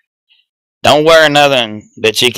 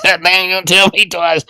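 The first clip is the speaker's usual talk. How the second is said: higher-pitched mock exasperation; quoting yourself in raised-pitch amazement; retold disbelief; 7 semitones higher than usual. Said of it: "I was like".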